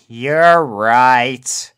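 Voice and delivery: breathy whispered admission; giving in, deflated; defeated sigh. A narrator's reading. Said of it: "she sighed in defeat".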